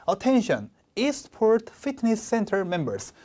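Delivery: proper noun read with a falling tune; slow, with the tune dropping through "Eastport Fitness Center members". Shown as a demonstration. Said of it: "이렇게 내려간다고".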